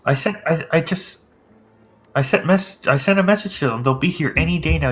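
nervous official promising help soon. Acted. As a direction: raise the pitch, a little rattled. NPC insists help is coming.

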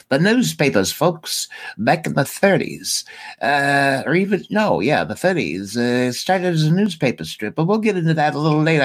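put-on old movie patter, racing at the end; 1930s film talk. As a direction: talk like a 1930s newsreel fella. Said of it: "I'm trying to talk like a, a nineteen thirties, uh, person on film".

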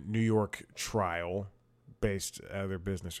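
monologue delivery. Shown as a demonstration. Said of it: "I'll deliver it like, like I'm doing my monologue".

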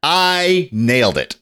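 high, drawn-out boast; triumphant. Real, not acted. Podcaster boasting about his improvised promo, triumphant. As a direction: crow it slowly, stretching the words.

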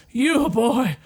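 high, wailing threat, building; accuse, then wail out the threat; vengeful undead dummy. Acted. Dummy threatening the boy who revived it, vengeful high wail. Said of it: "points at you and says".

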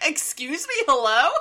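surprised, high, loud "hello?"; shocked reaction. Retold or imitated. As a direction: react in disbelief. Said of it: "I was like".

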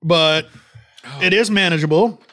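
talking through the burn; strained by chili heat; mouth burning from spicy food. Real, not acted. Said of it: "Trying to talk through the pain".

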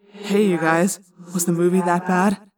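echoing telepathic voice; thought-speak message. A narrator's reading. Tobias calls down to friends by thought-speak, echoing. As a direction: speak as a voice inside the head, with echo. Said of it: "I heard a ThoughtSpeak message".

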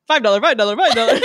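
lightly voiced auctioneer chant. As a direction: rattle the price off like an auctioneer. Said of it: "I'm like an auctioneer now".

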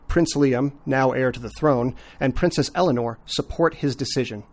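measured, scripted recap read; synopsis read. Acted. Host reads listeners the royal family plot recap, synopsis read. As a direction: read it out like a prepared plot summary.

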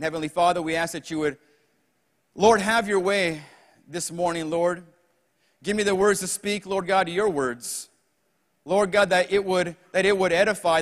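earnest prayer in short, repeated appeals; congregational prayer. Acted. Preacher asks the Lord to help the church, praying earnestly.

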